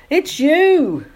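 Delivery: high, astonished recognition; exclaimed. A narrator's reading. Jonathan and Nancy find they know each other, surprised exclamation. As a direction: exclaim with the voice leaping up. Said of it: "both Jonathan and Nancy exclaimed".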